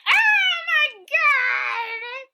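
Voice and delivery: high, very slow laughing oh my god; laughing mock gasp. Retelling Fern waking in the nurse's room, laughing. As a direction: stretch it out through a laugh. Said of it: "And she's like".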